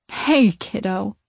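gentle, drawn-out greeting. A narrator's reading. Ghostly aunt greeting her tearful niece, slow and gentle. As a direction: say it slowly, with gentle affection. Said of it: "she says gently".

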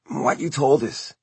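slow, hesitant words; halting. A narrator's reading. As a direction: say it haltingly, pausing. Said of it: "a little halting".

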